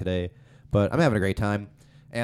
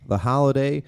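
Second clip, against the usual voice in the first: podcast host intro. Acted.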